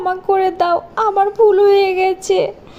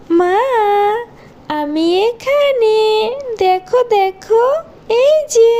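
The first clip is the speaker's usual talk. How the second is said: slow, higher, drawn-out ghostly call; ghost child voice; 4 semitones higher, much slower than usual. Acted. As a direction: lure her in like a haunting little ghost. Ghost girl calls stepmother.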